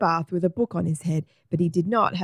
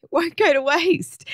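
high, louder delivery of a joke's punchline; gleeful punchline; 10 semitones higher, 5 dB louder than usual. A narrator's reading. Egbert telling Margaret his own joke, gleeful. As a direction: crow the punchline, about to burst out laughing. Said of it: "Egbert bursts out laughing".

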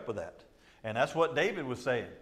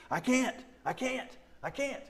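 high, whiny "I can't" in mockery; whiny high mock insecure voice; 9 semitones higher, 3 dB quieter than usual. Preacher mocking an insecure churchgoer, whiny high voice. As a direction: play the timid person who won't try, higher. Mimics insecure person whining.

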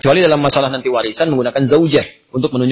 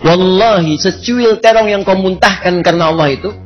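the preacher repeats the punchline to the audience, proclaiming; 4 semitones higher than usual. Acted.

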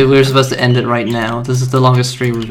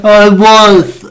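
loud, high sassy retort; indignant high shout; 9 semitones higher, 8 dB louder than usual. Real, not acted. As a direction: burst out with a sassy comeback.

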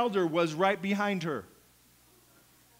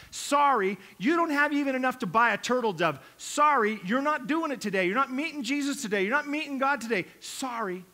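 louder, dismissive mock gatekeeper; 4 dB louder than usual. Temple gatekeeper turns worshippers away, louder and dismissive. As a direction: brush them off at the gate.

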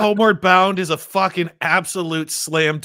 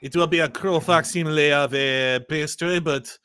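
reluctant mock French accent; French Shrek. French ogre grudgingly allowing a poor pastry, mock French accent. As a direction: lightly put on a disdainful Frenchman's accent. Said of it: "French Shrek".

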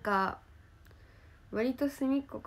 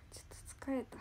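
whispering; 2 semitones higher, 10 dB quieter, much faster than usual. Real, not acted. Tired sigh, says she's sleepy.

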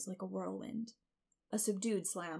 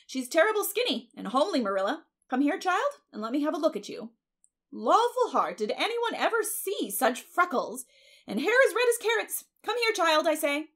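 high, loud, bossy appraisal; swooping, scandalized busybody; Mrs. Rachel, blunt neighbor; 8 semitones higher, 8 dB louder than usual. Acted. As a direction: exclaim and order the child about.

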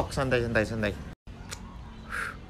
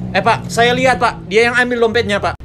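put-on high, loud tattling child; tattling kid; 8 semitones higher, 6 dB louder than usual. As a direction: rat out a classmate loudly, high-pitched. Kid accuses classmate to teacher.

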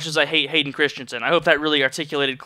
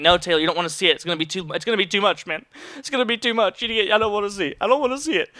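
mock dread; 3 semitones higher, faster than usual. Dreading the leftover sour cream.

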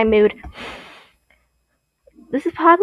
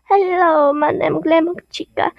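higher-pitched put-on British accent; amateur British accent, pitched up; Glamrock Chica; 4 semitones higher than usual. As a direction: introduce yourself in a light mock-British voice. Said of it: "I would see her as British".

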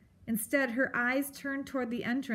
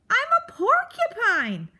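high, much louder creature yell; furious shout; 14 semitones higher, 9 dB louder than usual. A narrator's reading. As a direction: roar it at the mouse. Porcupine yells at mouse.

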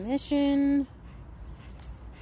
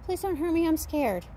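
scared puppy voice; 4 semitones higher than usual. Retold or imitated. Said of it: "She's saying".

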